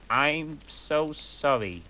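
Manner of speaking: slow, hesitant, lightly shy apology. Acted. Goth boy apologizing to the girl he bumped, shyly. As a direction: say it slowly, a bit bashful. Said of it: "he said in a shy voice".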